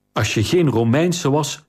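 a mild snap from the queen, stress on geen; sharp, curt threat, "geen" leaned on; a light, understated snarl; snapped. Acted. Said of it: "snauwde de koningin".

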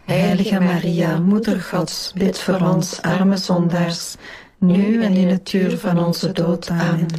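measured rosary response in unison; praying aloud as a congregation; prayer recitation. Real, not acted. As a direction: recite it together, evenly and devoutly. Group answers the Hail Mary.

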